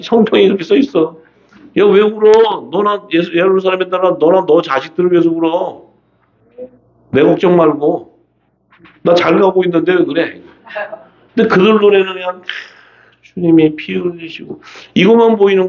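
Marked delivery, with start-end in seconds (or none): 1.8-10.4 higher-pitched mock scolding; Jesus to the weepers. Jesus telling weeping followers not to worry, higher-pitched chiding. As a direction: chide the mourners in a raised pitch. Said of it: "주님은 그 뭐라 하세요?".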